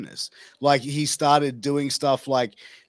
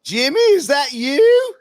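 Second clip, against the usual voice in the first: high, loud and slow, overjoyed to hear him; delighted preacher; 12 semitones higher, 9 dB louder, slower than usual. Retold or imitated. Preacher answers the Klansman's threat call, high sweet delight. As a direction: greet the caller like a long-lost friend. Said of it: "he just went".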